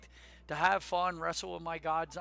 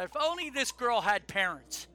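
slightly raised, pointed call; louder, higher retold callout; retold yell; 4 semitones higher, 5 dB louder than usual. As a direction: re-enact yelling it out for others to hear. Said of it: "and I yelled".

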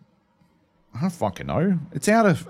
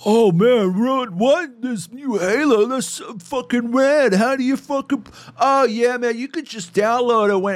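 high, loud American caricature; mock American gamer; 11 semitones higher, 5 dB louder than usual. Other American on the phone about Halo, mock American gamer voice. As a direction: babble excitedly like an American bro, hammed up. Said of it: "you can hear the other guy".

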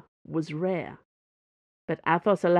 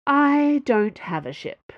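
sighed; 8 semitones higher, 4 dB louder, slower than usual. Acted. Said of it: "Dana sighed".

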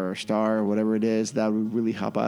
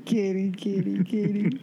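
high kitty-calling voice; calling a cat; 8 semitones higher, slower than usual. Real, not acted. Calling the cat over, high-pitched coaxing call.

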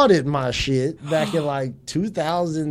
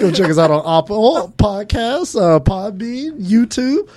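work voice; 5 semitones higher, 4 dB louder than usual. Pretend. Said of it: "Is that your work voice?".

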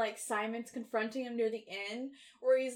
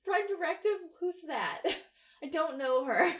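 higher-pitched, playful feigned cluelessness; mock ignorance; 6 semitones higher than usual. Co-host voicing Jack's disregard for the rule, mock ignorance. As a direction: play dumb, lightly breaking into laughter.

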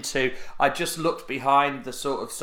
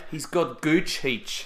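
mock Aussie; slower than usual. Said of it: "turn occasionally Australian".

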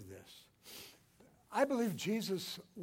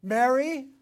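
loud, high commanding call, louder still; 7 semitones higher, 13 dB louder than usual. Acted. Jesus commanding Mary to turn. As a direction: summon her by name, no room to refuse. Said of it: "it's a commanding voice".

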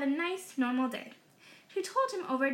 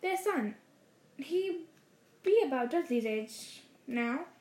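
forced casual; 3 semitones higher than usual. Acted. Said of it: "as casually as he could".

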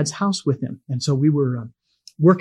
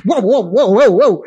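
mock alarmed whoa; 5 semitones higher, 6 dB louder than usual. Kid stopping at dad's line.

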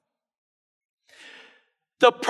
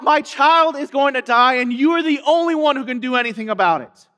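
crying out; 4 semitones higher than usual. Retold or imitated. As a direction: preach the father's cry at raised volume. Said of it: "He cries out".

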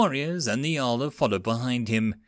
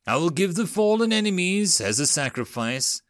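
intoning; 6 semitones higher than usual. Acted. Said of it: "Urka intoned".

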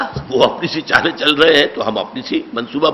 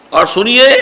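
mock polite request; 5 semitones higher than usual. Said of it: "وہ چپکے سے کہہ دیا".

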